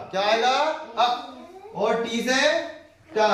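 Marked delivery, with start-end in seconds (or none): 1.0-1.1 "अ" as a brief short vowel; clipped little "अ"; short pronunciation. Shown as a demonstration. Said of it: "लघु उच्चारण होगा आ का".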